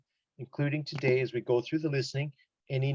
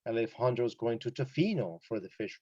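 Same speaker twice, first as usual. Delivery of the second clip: "Tofino" emphasized as the place; stress on TOFINO. Shown as a demonstration. Teacher showing that where is important, "Tofino" emphasized. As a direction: make "Tofino" stand out from the other words. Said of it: "So I emphasize that".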